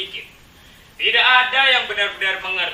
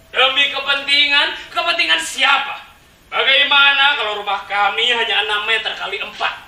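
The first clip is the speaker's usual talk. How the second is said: loud, raised indignant questioning; astonished protest; 5 semitones higher, 5 dB louder than usual. Acted. Residents challenging the official over their small houses, indignant protest. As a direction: challenge him with rising outrage. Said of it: "Warga kami tercengang".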